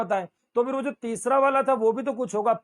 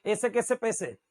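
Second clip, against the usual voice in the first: Indore dialect vowels; 3 dB quieter than usual. Shown as a demonstration. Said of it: "ये इंदौरी भाषा है".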